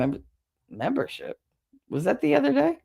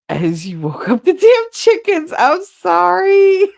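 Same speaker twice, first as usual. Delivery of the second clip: a hammed-up Australian accent, much higher and louder, laughing at the end; a badly faked Australian accent, much higher and louder, breaking into laughter; 14 semitones higher, 9 dB louder, slower than usual. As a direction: put on a bad Aussie accent and crack up. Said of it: "That's as good as the accent gets".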